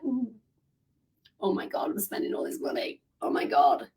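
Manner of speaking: very soft, nearly whispered dread; guilty hush. Retold or imitated. Acts out guilt after buying something.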